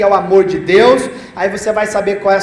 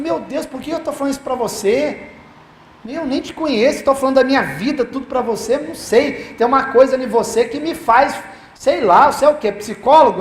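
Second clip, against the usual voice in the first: mock-baffled questioning, pitched up; retold bewilderment; 3 semitones higher than usual. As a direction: act out her puzzled wondering, voice lifted. Retold woman puzzled at confiding.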